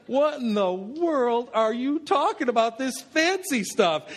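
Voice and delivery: slow, drawn-out baffled question; mock bewilderment. Golfer baffled by his English friend's word, acted-out bewilderment. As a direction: react as if "fancy" were an alien word. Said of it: "the head tilts and kinda goes back".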